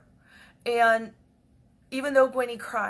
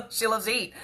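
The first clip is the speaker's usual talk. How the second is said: normal talking voice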